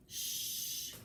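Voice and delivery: whispered shh; hushing. A narrator's reading. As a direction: hush him softly during the prayer. Grandma hushes Johnny in prayer.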